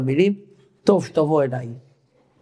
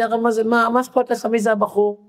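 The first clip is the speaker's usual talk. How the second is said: mocking disbelief; 6 semitones higher than usual. Woman mocks rabbi's question.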